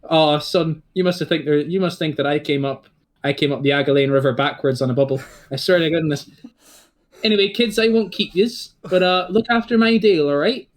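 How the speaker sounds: a dad fondly mocking his boy; teasing old dad. Dad NPC signs off.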